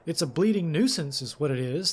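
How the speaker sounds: put-on loud, grumbling Yorkshire accent. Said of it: "grumbled in a thick Yorkshire accent".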